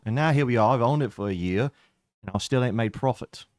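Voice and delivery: Melvin reminiscing with a touch of pride; a hint of a roguish vampire barkeep; lightly voiced tavern-owning vampire. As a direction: play the tavern boss musing to a partner. Game master voices Melvin.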